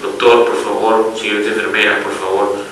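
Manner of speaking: the newborn begging the doctor and nurse for CPAP, softly pleading; baby's plea. Retold or imitated. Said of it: "me está diciendo a gritos".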